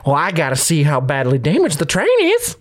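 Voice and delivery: a hint of an old frontier prospector; folksy old miner greeting. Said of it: "an old prospector".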